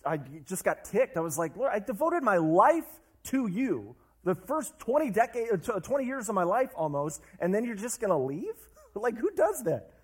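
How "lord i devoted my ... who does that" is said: retold anger. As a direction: reenact being ticked off at the Lord, half-playful. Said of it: "Then I got angry".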